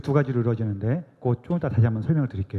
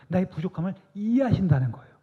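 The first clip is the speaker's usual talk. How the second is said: 나의 부족함을 이해하신다는 거예요 voiced out higher, stress on 이해하신다는; full voice; 5 semitones higher than usual. Real, not acted. Preacher declaring aloud to the congregation that God understands. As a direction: come back to full voice on 이해하신다는. Repeated phrase, whisper then full voice.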